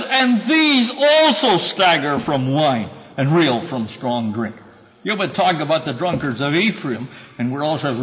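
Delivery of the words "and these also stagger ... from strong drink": prophetic proclamation. Acted. Reading the prophet's charge.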